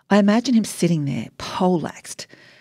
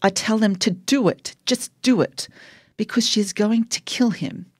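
a mild narrated yell, urging; understated yell; 5 semitones higher than usual. A narrator's reading. Daughter urges the nurses over the phone, understated yell. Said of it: "I yell that they told us".

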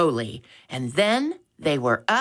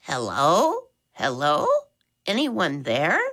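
put-on a light squeaky old woman's call; an old woman calling down a bad phone line; squeaky old lady. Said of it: "a voice loudly squeaked".

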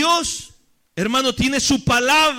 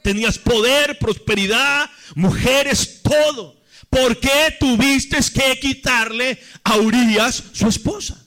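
preacher acting a prophet's reproach; emphatic accusing questions, driven home phrase by phrase; Natán. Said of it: "Le dijo". (reproche enfático de profeta)

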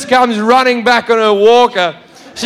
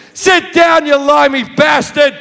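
angry heckle; 5 semitones higher than usual. Retold or imitated.

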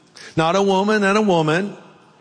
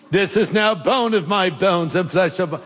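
put-on English accent. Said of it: "I sound more like Cary Grant".

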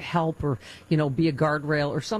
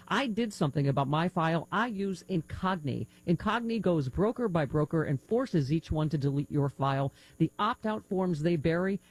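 measured, cautionary radio ad delivery; scripted ad read. Acted. Host warning listeners about data brokers, scripted ad read. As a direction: lay out the threat, then offer the fix.

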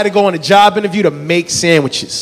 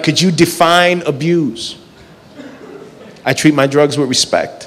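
mock-earnest evasion; slower than usual. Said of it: "I'm like".

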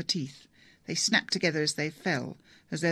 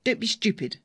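edge in her voice; 5 semitones higher, 4 dB louder than usual. A narrator's reading. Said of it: "The edge in her voice shocked her".

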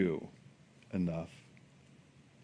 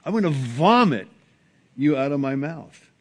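disgusted Jesus; 2 semitones higher, 3 dB louder than usual. Retold or imitated. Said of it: "that's Jesus talking".

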